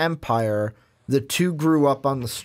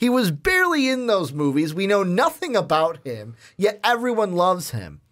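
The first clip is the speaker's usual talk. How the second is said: retold protest; 5 semitones higher than usual. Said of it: "And he goes".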